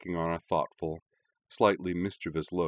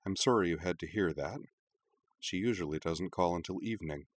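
softer, sorry tone; apologetic; 5 dB quieter than usual. Acted. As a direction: apologize gently to the guest. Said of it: "and said apologetically".

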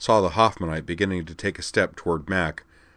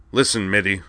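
grunted; 2 semitones higher, 4 dB louder than usual. Acted. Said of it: "Lorg grunted".

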